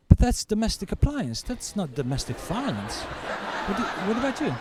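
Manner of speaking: half-laughing scoff at the dishwasher; laughing cellmate. Retold or imitated. Cellmate laughing at the dishwasher story, amused. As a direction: chuckle through the joke.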